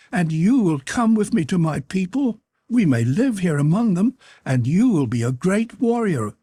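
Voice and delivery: put-on high, pleading, hopeful girl; eager young girl. A narrator's reading. Cotan begging Bradley to come, high and eager. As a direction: coax him to stay with her people.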